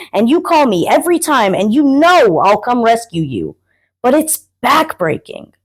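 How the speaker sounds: mounting exasperation, pitch climbing as it goes; exasperated. Acted. Friend fed up with always bailing him out, exasperated. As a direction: plead the unfairness, worn out with rescuing. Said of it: "he's exasperated".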